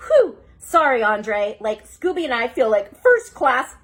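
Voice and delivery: sheepish sighing apology; sighing Shaggy. Acted. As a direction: sigh out the sorry. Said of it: "Shaggy sighed".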